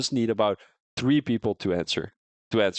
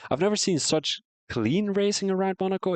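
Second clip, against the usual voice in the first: mock high echo; 10 semitones higher than usual. Echoing chat in put-on voice.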